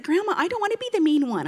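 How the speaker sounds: mildly mock-upset kid objecting to Grandma; upset child. Upset granddaughter objects to her story role, mock protest. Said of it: "Alina was very upset".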